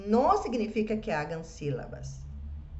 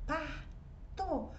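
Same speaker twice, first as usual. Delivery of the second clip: "Sapato" drawn out slowly and much softer, sound by sound; 4 semitones higher, 12 dB quieter, slower than usual. Shown as a demonstration. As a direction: stretch "Sapato" out softly so each sound is heard. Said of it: "há seis sonidos".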